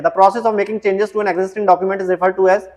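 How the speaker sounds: reading the question out slowly, word by word; slow, deliberate quiz read-out. Acted. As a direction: dictate the question slowly to the class. Reads the quiz question aloud.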